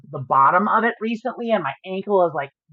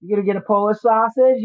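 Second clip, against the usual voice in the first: a light Chicago accent, retold; easy Chicago accent for a kid hearing it for the first time; faster than usual. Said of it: "I turned on the Chicago accent for her".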